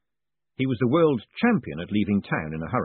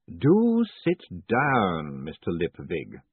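weary patrician; 3 semitones lower, much slower than usual. Acted. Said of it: "gesturing wearily".

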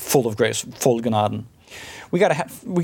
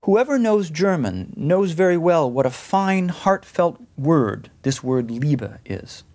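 quoting Luther; 3 semitones higher than usual. Retold or imitated. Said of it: "And so Luther comments".

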